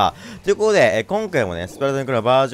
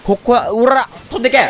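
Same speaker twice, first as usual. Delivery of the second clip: battle cry; 9 semitones higher, 4 dB louder than usual. Real, not acted. Throwing the special.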